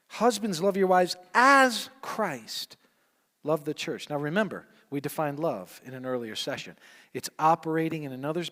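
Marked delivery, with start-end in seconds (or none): 0.1-4.1 slow, high and loud; preached scripture. Acted. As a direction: proclaim the verse with full force.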